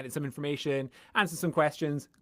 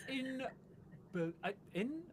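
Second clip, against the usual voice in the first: laughing; 12 semitones higher, 10 dB louder than usual. Real, not acted. Fumbling a word while laughing.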